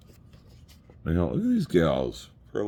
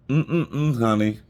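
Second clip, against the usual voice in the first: higher-pitched sassy Southern waitress; imitated Southern gal, pitched up; Southern belle; 7 semitones higher, 3 dB louder, much slower than usual. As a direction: coo it high like a Southern belle. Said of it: "this little Southern belle comes up".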